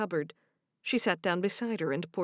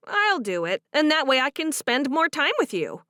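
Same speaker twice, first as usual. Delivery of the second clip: higher, warm voiced heroine; young Amish woman; 6 semitones higher, 6 dB louder than usual. Cherish offering to do the dishes, higher and bright. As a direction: speak up brightly to her friend.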